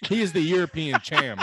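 "cham" said without the final p, laughing; reading "cham" as the text spells it, amused; dropped p. Retold or imitated. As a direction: say "cham" with no p at the end, like a typo read aloud. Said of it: "Cham, not champ".

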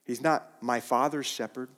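"not" pressed firmly; firm denial on "not"; stress on not. Shown as a demonstration. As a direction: push "not" hard. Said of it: "He's my shepherd".

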